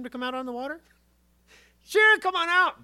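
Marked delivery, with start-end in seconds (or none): 1.8-2.8 high, loud, sly devil voice; mock devil, pitched up. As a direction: lure him out like a tempter.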